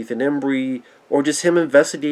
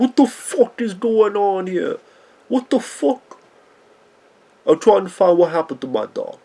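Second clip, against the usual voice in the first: put-on New York Brooklyn accent, raised pitch; 5 semitones higher than usual. Discussing a movie character, the speaker breaks into a put-on Brooklyn accent. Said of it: "I always try to break in that voice".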